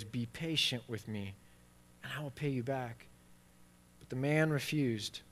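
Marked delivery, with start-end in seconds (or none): 0.0-3.1 quieter begging. Retold or imitated. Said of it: "he said this, the same phrase".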